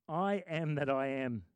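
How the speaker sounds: slow, low and solemn; slow awed quote. Acted. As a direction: savour the words in wonder. Repeating God's words in awe.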